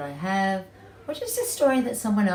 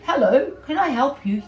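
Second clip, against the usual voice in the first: higher, louder piggy voice; be a chirpy pig; 7 semitones higher, 7 dB louder than usual. Acted. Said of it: "said Missus Pig".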